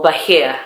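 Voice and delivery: "but here" with BY shortened to "buh"; Welsh "by here". Shown as a demonstration. Explaining a Welsh phrase to viewers, "but here" run together as "buh-here". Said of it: "Welsh people say".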